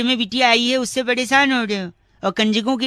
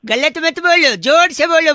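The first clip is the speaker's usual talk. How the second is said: calling out; 5 semitones higher, 3 dB louder than usual. Acted. Prank caller demanding louder.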